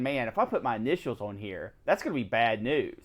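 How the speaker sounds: low, soft aside to oneself; muttered private thought. Retold or imitated. Recalling worry about putting initials on cards, low muttered thought. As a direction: drop the voice as if thinking aloud.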